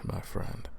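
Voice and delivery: a hushed, deadly promise; menacing whisper. Acted. Hunter warning the captive he could turn, whispered. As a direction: whisper it as a quiet threat.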